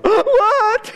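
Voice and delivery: put-on high squeaky shocked "What?" like a child; kids' shocked what. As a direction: play a shocked little kid. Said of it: "all my kids are like".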